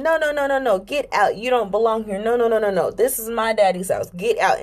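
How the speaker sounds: high mock-toddler telling off; high, insistent childish scolding; retold child scolding. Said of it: "I'm telling them".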